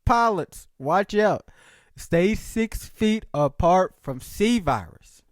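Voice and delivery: high, hammed-up public warning voice; mock warning announcement. The world warning everyone about the virus, hammed-up alarm. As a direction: warn everyone like a mock broadcast. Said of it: "And it's like".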